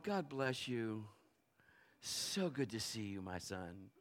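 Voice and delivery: soft, slow and tender; gentle blessing. Retold or imitated. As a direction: bless him like a kind father. Gentle ideal response he should've given.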